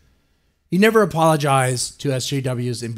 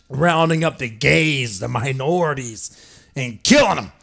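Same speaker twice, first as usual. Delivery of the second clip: mock hysteria. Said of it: "the outrage".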